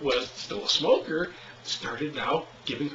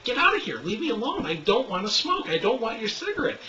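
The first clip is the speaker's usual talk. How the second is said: angry; 7 semitones higher than usual. Retold or imitated. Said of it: "getting more and more angry".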